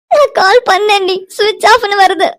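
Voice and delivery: tearful, anguished report; crying. Acted. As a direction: keep crying as you explain. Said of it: "அழுகாத, கண்டிப்பா பார்க்கலாம்". (அழுகையோடு சொல்லும் குரல்)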